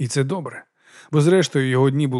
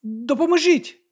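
high, slow, tentative cry; unsure shout; 12 semitones higher, slower than usual. A narrator's reading. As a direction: call for help, not quite committing. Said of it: "невпевнено крикнув він".

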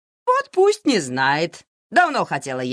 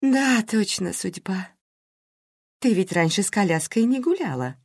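tender; 6 semitones higher than usual. A narrator's reading. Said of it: "с нежностью в голосе Карина".

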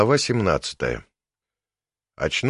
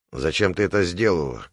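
usual speaking voice

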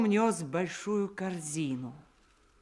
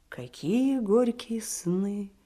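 hushed whisper; 4 semitones higher, slower than usual. A narrator's reading. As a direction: breathe it out gently. Narrator pities the sleeping slave.

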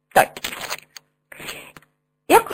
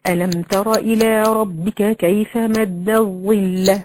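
slow, level-pitched chanted verse; Quran recitation; much slower than usual. Shown as a demonstration. Teacher quoting a verse to students, recited slowly. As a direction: recite it in measured tajweed.

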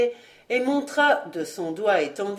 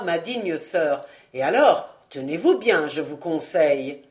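grosse gaieté; 2 semitones lower than usual. Acted. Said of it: "une expression de grosse gaieté".

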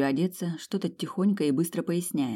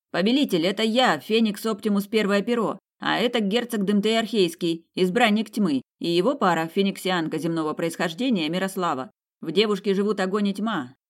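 higher-pitched herald presenting the company; eager loyal servant; 4 semitones higher than usual. Acted. Phoenix introduces companions to his revived lord, eager higher voice. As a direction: announce it eagerly to your master.

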